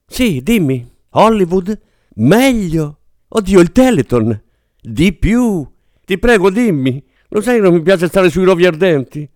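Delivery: excited actress pleading with her agent; eager excitement. Acted. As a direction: beg to hear the news.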